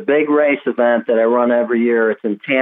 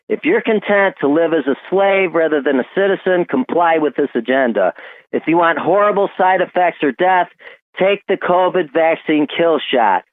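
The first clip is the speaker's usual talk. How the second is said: voicemail message; 4 semitones higher than usual. Retold or imitated. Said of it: "this is what she heard in my voicemail".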